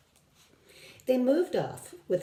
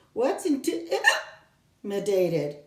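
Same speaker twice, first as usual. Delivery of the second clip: put-on child's question; 4 semitones higher, 3 dB louder, much slower than usual. Small girl asking.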